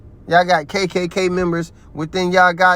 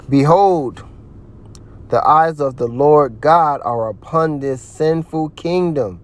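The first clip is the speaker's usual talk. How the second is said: scripture reading. Acted. Reads Amos verse aloud.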